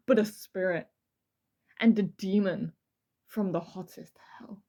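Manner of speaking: a demon introducing himself, fading to a hiss; dramatic reading. Acted. Host reading the letter as a demon, ending in a whisper. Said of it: "This is a dramatic reading".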